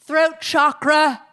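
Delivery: slow, awed, rising to loud delight; mock meditation bliss. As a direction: ham up a spiritual awakening. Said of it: "I'm like".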